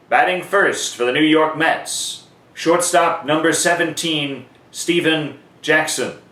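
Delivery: measured, ringing stadium intro with the name drawn out; PA announcer call. Shown as a demonstration. Announcer demonstrating the away lineup, in a measured stadium call. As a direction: announce the away batter like Bob Shepard. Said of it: "for the away team it'd sound like this".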